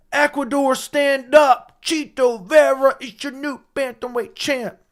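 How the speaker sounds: high, loud, slowed-down fight announcer; ring announcer voice. Pretend. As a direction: belt it out like an octagon announcer. Mock ring announcer crowning champion.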